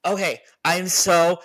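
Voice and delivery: panting between words; breathless, still catching air; out of breath. Real, not acted. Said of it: "let me catch my breath".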